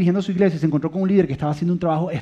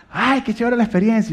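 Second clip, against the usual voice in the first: laughing mock delight; 6 semitones higher, 4 dB louder than usual.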